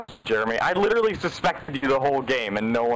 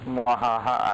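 evil laugh; slower than usual. Pretend. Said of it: "the evil traitor man".

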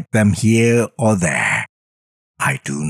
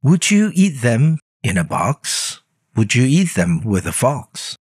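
higher, eager coaxing little voice; Sam-I-Am voice; 6 semitones higher than usual. Acted. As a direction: pester him sweetly with the offer. Sam voice again.

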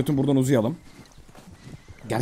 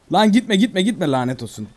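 loud, raised start dropping into a curse; frustrated calling out; 4 semitones higher, 4 dB louder than usual. Real, not acted. Player to escaping horse, frustrated outburst. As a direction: call after it, then give up cursing. Horse keeps running away.

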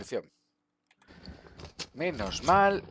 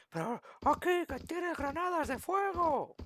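much higher, slow mock-viewer voice; 6 dB quieter, slower than usual. Gamer imitating viewers shouting at the screen, mocking squeak. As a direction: squeak it like a nagging fan at home. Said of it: "Lo estaréis gritando desde casa".

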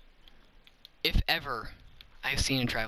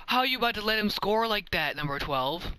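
scolding; 5 semitones higher than usual. Real, not acted. Scolding a defender.

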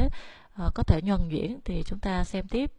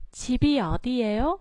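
집이 어디예요 with 집 and 어 pitched low; low phrase starts; 4 semitones higher, much faster than usual. Shown as a demonstration. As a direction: drop on 집 and 어, rise after each. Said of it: "mình xuống giọng từ chip và o".

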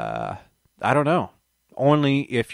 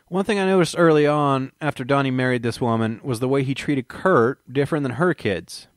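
put-on Texas accent. Reading Leland's account aloud to viewers, light Texas accent. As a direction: read Leland's words in a mild Texas accent. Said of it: "how come you're using a Texas accent for Leland Cobain".

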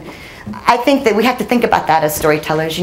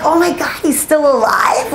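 retold surprise; 7 semitones higher, slower than usual. Retelling her shock at news.

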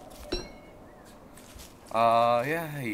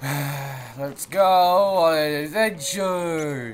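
cheery cartoon voice; 3 semitones higher, much slower than usual.

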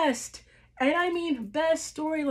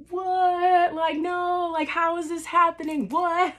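higher, incredulous "What?"; stunned disbelief; 5 semitones higher than usual. Retold or imitated. Fan reliving the betrayal, stunned disbelief. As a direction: replay the shock of the betrayal. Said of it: "I'm just like".

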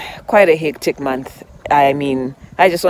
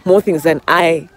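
cheerful inner voice; 5 dB louder than usual. Retold or imitated. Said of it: "'cause I was".

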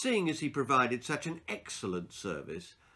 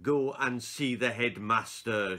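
said slowly. Acted. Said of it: "she said slowly".

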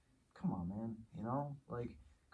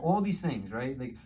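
much higher and louder, building to a yell; rising fury; 9 semitones higher, 10 dB louder than usual. Retold or imitated. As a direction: let the anger boil over at your son. Angry thoughts about son rising.

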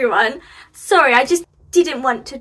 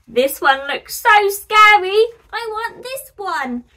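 put-on higher, slow kid savouring scary; delighted child; 8 semitones higher, 7 dB louder than usual. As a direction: stretch it out like a kid who loves spooky things. Child choosing scary pumpkin.

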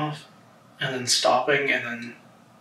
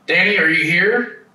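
raised voice calling into the dark; 2 semitones higher, 6 dB louder than usual. Real, not acted. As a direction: call out to an unseen spirit. Calling out to the ghost.

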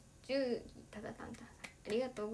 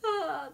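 mock sigh; 5 semitones higher, 6 dB louder than usual. Retold sigh while waiting.

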